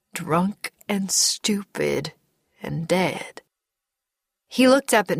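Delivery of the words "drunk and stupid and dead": slow, whispery, halting words; dawning realisation. Acted. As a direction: let it sink in under the breath. Man slowly accepting the truth.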